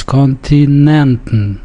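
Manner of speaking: Kontinenten with the stress on nen. Shown as a demonstration. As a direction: land on nen in Kontinenten, syllabic tn at the end. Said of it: "on nen".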